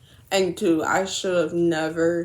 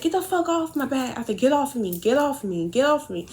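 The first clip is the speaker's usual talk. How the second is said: higher-pitched mock yell, held back in volume; retold yell; 5 semitones higher than usual. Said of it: "I was just yelling at him".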